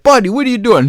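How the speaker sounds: loud, high re-enacted question; retold calling out. Calls out to cat in retold story.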